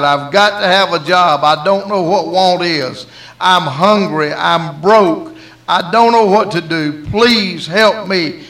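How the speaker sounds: loud, emphatic mock plea; begging. Prodigal son begging a stranger for work, pleading. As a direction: plead insistently, hammering each short phrase. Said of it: "he literally begged and cried".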